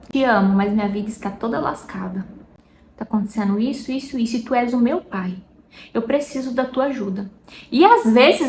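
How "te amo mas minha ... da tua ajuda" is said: soft, intimate plea to God; hushed and pleading, speaking only to God; quiet prayer. Retold or imitated. A suffering woman quietly confides in God, hushed prayer. Praying to God about hardship.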